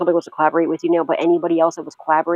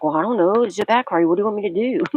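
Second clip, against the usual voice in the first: higher-pitched, mocking shrug-off; mock dickish brush-off; 4 semitones higher than usual. Practitioner fobbing off a client about a backfire, mock dismissive. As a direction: imitate someone playing clueless and unhelpful. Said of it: "started being a real dick".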